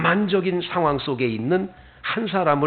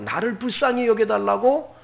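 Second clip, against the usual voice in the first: retold pleading, pitched up at normal volume; earnest plea; 5 semitones higher than usual. Bartimaeus begging the Messiah for pity, mild earnest plea. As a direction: lightly imitate an earnest appeal. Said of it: "간절하게 외친 겁니다".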